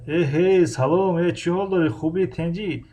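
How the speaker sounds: a casual Tajik dialect greeting; relaxed spoken Tajik phone greeting; Tajik colloquial. Shown as a demonstration. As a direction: say it like a friend from home in Tajik dialect.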